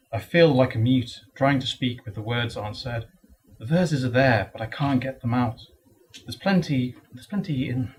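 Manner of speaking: lightly performed poem recital; poetry reading. Acted. Poet reads writer's block poem to an audience, measured recital. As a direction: recite in short, measured phrases with pauses.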